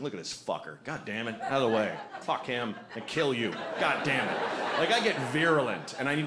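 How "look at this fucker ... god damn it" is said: road rage muttering. Retold or imitated. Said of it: "you're like".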